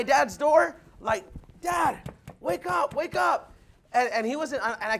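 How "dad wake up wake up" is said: retold higher-pitched call to wake Dad; excited wake-up call. Son pounding on dad's door at night, excited wake-up call. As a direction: imitate rousing someone, pitched up. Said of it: "I was so excited".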